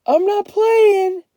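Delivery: high, loud, slow insistence; insistent yell. A narrator's reading. Kenny insists he's serious, yelling. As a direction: drag it out to make them believe.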